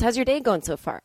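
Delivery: lightly mocking a chirpy waiter's question; sing-song fake-friendly question; imitating waiter, chipper small talk. Guest mocking the waiter's chirpy small talk, sing-song. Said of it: "He goes".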